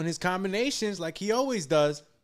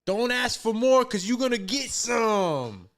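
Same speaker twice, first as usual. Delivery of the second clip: mock shout; 5 semitones higher, 4 dB louder than usual. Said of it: "He said".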